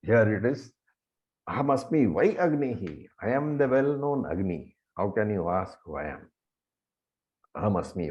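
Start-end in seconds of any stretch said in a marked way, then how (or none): 1.5-3.1 "vai" leaned on with a pitch swoop; stress on vai. Shown as a demonstration. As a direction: emphasise the word "vai". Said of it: "lay stress on the word".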